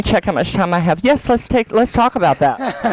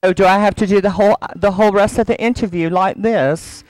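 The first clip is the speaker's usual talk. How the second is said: badly faked London accent; amateur attempt at a Southern English accent; bad British accent. Shown as a demonstration. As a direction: put on a hokey British accent. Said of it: "like this in my bad accent".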